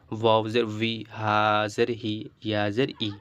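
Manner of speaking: measured Arabic syllable spelling; name letter and vowel, then join them; spelling aloud. Shown as a demonstration. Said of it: "এটা তো আমরা বানান করে পড়লাম".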